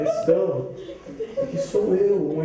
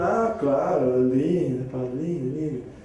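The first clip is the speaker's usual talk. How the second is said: dreamy; 2 semitones lower, slower than usual. Acted. Pedro dreamy.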